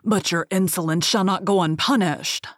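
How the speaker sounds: loud, furious beast roaring at the thief; a monster scolding in a terrible voice. Acted. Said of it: "said in a terrible voice".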